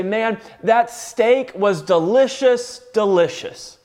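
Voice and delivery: "delicious, delicious" said slowly as two separate beats; slow stress on both "delicious"; emphatic repetition. Shown as a demonstration. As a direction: savor each "delicious", pausing between them. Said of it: "That's how you would emphasize it".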